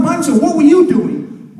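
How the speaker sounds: high, slow, loud question; demanding. Acted. Zoo guy demanding an answer from the chimp, high and loud.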